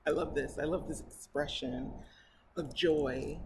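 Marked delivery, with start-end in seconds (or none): none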